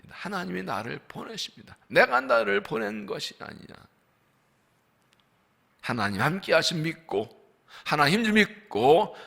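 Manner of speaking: ordinary talk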